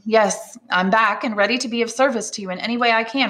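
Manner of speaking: polite but faintly cool, quick; barely concealed coldness. Acted. Edmond answers unwelcome neighbor, politely cool. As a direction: offer service with a touch of coolness. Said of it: "scarcely concealing his coldness".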